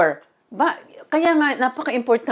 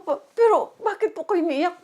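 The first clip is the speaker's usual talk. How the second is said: high worried question; 5 semitones higher than usual. Retold or imitated. Asking God again.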